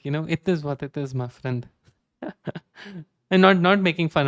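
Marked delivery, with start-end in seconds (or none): 0.3-1.7 lightly imitated Middle Eastern accent; affectionate take-off of a Middle Eastern accent; mock foreign accent. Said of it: "I love that accent".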